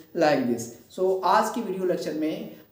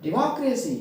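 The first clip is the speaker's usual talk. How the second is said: डेमोक्रेसी as de-MOCK-racy, मॉक stressed; stress on middle syllable; 4 semitones higher than usual. Shown as a demonstration. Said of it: "मॉक पे क्या कर देंगे". (डेमोक्रेसी में मॉक पर ज़ोर)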